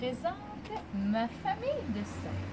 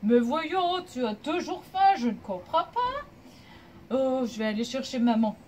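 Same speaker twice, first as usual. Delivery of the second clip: loud, lightly voiced monkey dad; papa monkey protesting; 5 dB louder than usual. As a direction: remonstrate loudly with a stubborn child. Papa monkey answers his stubborn child. (papa singe qui proteste un peu fort)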